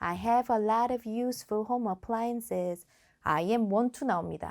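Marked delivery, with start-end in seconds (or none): 0.0-2.9 flat monotone, no stress, even pace, rehearsed-sounding. Showing a rehearsed-sounding English answer: flat, no stress or intonation. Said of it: "강세랑 인토네이션 없는 답변".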